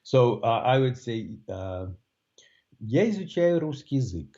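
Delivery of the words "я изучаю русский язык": neutral Russian statement, sinking at the end of "язык"; "Я изучаю русский язык" with a steep final fall; falling statement intonation. Shown as a demonstration. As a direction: let "русский язык" drop right down at the end. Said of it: "make the statement go down at the end".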